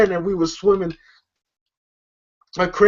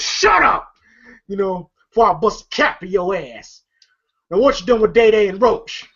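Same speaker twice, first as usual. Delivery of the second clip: mock angry yell; 3 semitones higher than usual. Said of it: "Pinky goes".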